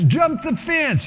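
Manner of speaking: high, slow shouted dare; rowdy teen shouting the dare, high and slow; shouted order. Retold or imitated. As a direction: yell it across the pool like a rowdy kid. Teenager shouting to his friends.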